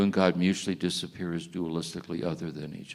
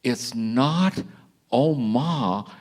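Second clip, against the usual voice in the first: calling out; 6 semitones higher, 5 dB louder, much slower than usual. Retold or imitated. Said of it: "He said".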